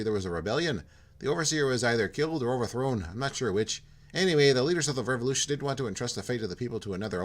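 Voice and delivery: put-on polite, lightly done Minnesota accent; hint of a chirpy Minnesota accent. Jim welcoming Porto in a light Minnesota accent. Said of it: "He's from Minnesota".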